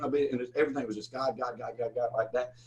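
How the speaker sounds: usual speaking voice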